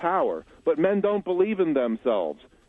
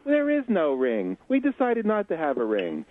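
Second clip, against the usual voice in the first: higher mock-feminine voice; raised pitch, put-on fiancée voice; engaged woman; 5 semitones higher than usual. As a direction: lightly imitate a woman explaining herself. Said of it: "And she says".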